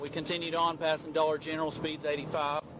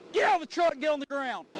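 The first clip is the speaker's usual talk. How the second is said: loud high yelled orders; shouting commands; 9 semitones higher, 4 dB louder than usual. Real, not acted. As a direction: yell at the suspect to get down. Trooper ordering suspects out.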